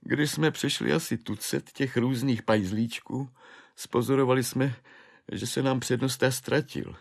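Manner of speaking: high, wailing clerk's voice; a broken man recounting his spree; desperate clerk. Acted. Clerk tells Švejk how the name-day spree began, high wailing.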